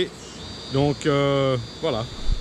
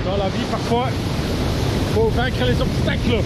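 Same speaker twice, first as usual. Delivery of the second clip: in ice cold water; 7 semitones higher, 4 dB louder than usual. Real, not acted. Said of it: "elle est glacée".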